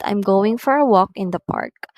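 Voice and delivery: statement falling on "park"; falling intonation. Shown as a demonstration. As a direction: bring "park" down to a close. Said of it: "usually using falling intonation".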